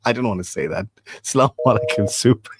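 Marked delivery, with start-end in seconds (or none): none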